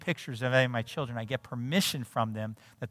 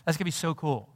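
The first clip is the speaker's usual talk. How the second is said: bright, much higher and louder mock glee; naive excitement; 4 semitones higher, 4 dB louder, faster than usual. Pastor retelling his naive joy at the prophecy, mock-excited. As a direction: gush like a dad who thinks it'll all be easy. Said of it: "It's like".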